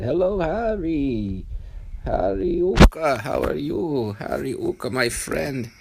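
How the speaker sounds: high, loud, slow jolly greeting; jolly Baal Shem. Acted. Baal Shem of the future greeting Harry on the intercom: loud, high, slow and jolly. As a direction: boom out a delighted hello to an old friend. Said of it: "And he said".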